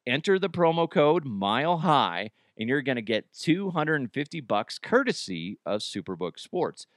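upbeat radio ad read; sponsor ad read. Acted. Radio host reads the sportsbook sponsor ad in upbeat ad voice. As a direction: sell the promo code like a host read.

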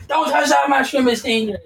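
high squeaky Toad impression. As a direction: squeak it like a tiny mushroom. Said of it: "I laughed at Toad saying".

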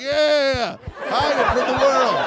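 sarcastic audience member, high and loud; mock audience voice. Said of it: "You'd be like".

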